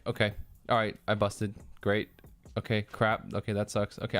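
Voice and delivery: deadpan, muted reactions to losing; unbothered muttered acceptance; stone cold. Acted. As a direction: take each loss impassively, no reaction. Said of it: "I'm just, like, stone cold".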